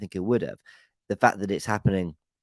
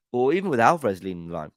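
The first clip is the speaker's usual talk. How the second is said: hiccuping; faster than usual. Real, not acted. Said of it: "I keep hiccuping".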